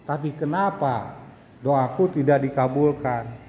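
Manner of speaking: lightly voiced grumbling petitioner; complaining prayer. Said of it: "Jangan sampai kita menggugat Allah".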